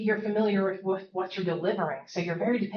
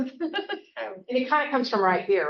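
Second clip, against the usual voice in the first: slow demo; 5 semitones higher, slower than usual. Shown as a demonstration. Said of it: "breathing demo".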